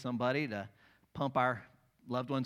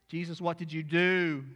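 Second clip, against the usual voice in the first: high, louder, amazed question; astonished cry; 4 semitones higher, 6 dB louder than usual. Acted. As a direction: gasp it out in wonder. Preacher voices astonished onlooker.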